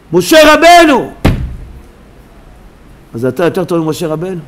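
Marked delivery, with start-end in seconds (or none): 0.1-1.1 high, drawn-out exclamation; emphatic shout. Real, not acted. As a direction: cry out the name in amazement. Preacher cries out emphatically. (קריאה רמה)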